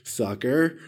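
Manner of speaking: a smug little taunting laugh; mocking taunt. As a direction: gloat at him lightly, half laughing. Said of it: "he gave me that".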